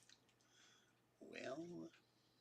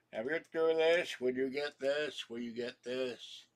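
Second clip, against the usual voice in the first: mocking whiny subscriber; 4 semitones higher, 5 dB louder than usual. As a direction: imitate a demanding viewer asking again and again.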